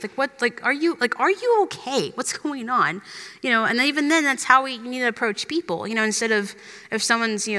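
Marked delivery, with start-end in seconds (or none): 0.0-3.0 gentle concern. Retold or imitated. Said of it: "talked to the disciples and asked them".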